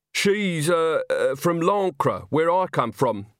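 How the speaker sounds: awkward, halting explanation in a character voice; mumbled, hesitant. A narrator's reading. Young witch explains the old witch to a man, embarrassed mumble. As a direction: stumble over it, embarrassed. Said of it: "Agnes mumbled".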